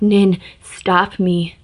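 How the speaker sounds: begging. Acted. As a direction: drag it out, begging hard. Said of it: "begged the ghost".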